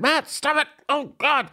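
a hammed-up flustered plea; mock alarmed. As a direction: beg your drunk friend to stop. Restraining friend Matt.

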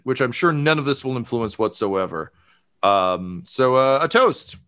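hammed-up nervous toast. Ministry official toasting the couple, lightly nervous. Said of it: "Weebly Straubmeyer, um, says, like".

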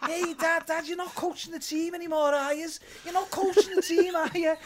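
mock Liverpool kid needling his father; Scouse son teasing his dad about coaching; taunting Scouse son. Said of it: "impersonations of his angry Scouse bloke".

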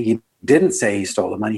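emphasis lands on "didn't"; stress on DIDN'T. Shown as a demonstration. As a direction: lean hard on "didn't". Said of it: "seven words, seven interpretations".

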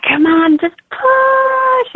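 high, strained mock push; retold urgent urging. Mother replays willing herself to push, urgent and high. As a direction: pitch climbing sharply as if bearing down.

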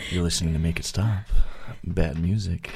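NPR voice. Acted. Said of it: "Why are you saying it like a, like a seventies porn star?".

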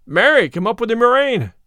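loud, high, indignant retort; fuming cry. A narrator's reading. Tanner cries back at Little John, fuming. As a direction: cry out in a fume. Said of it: "talked himself into a fume".

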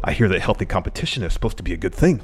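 lightly voiced wrestler impression; a slight put-on voice for the tweet; Kenny Omega. Host reading a wrestler's complaint, lightly in character. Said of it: "You do the, the best Kenny Omega".

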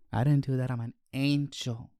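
small, soft angelic denial; feigned innocence. Retold or imitated. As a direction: play the innocent little angel. Acts out denying innocent child.

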